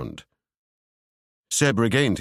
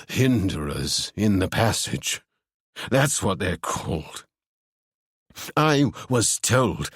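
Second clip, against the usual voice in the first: haunted. Acted. Ewan confessing what he glimpsed, slow and haunted. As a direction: speak it as a dreadful secret.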